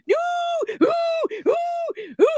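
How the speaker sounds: spaced-out wailing hoots; hammed-up kid whimpering; mock crying. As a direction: imitate the brother's pained howls. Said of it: "He's crying".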